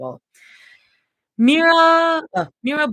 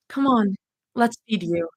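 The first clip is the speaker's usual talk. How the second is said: gentle. Acted. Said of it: "Her voice was gentle".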